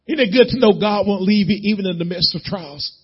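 normal talking voice

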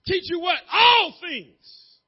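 high, loud rhetorical question and answer; preaching shout. Acted. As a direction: fire the answer back at the congregation.

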